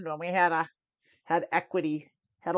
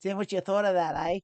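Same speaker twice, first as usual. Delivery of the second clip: playful attempt at Australian; fake Aussie accent; 3 semitones higher, faster than usual. Streamer asking Charlotte's verdict, fake Aussie accent. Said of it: "I love doing my fake Aussie accent".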